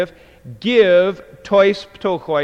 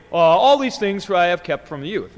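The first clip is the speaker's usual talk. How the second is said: rattled off fast and flat-hearted; cold, offhand; 3 dB louder, faster than usual. Shown as a demonstration. Teacher mocking a cold recital of the commandments, quick and offhand. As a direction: toss it off like it means nothing. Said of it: "Not just something, you know, coldly".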